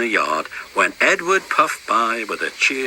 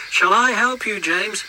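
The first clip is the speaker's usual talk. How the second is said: calling; 10 semitones higher than usual. Acted. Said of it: "called Edward".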